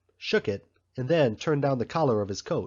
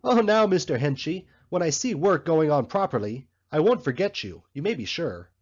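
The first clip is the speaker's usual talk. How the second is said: pitched-up, mock fawning boy's voice; mocking the shoe boy; 5 semitones higher, 4 dB louder than usual. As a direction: ape the boy's smarmy promise with scorn. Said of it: "but he said".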